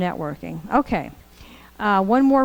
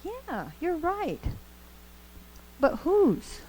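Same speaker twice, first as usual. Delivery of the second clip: knowing tease; 9 semitones higher, 4 dB quieter, much slower than usual. Retold or imitated. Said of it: "And Massey's like".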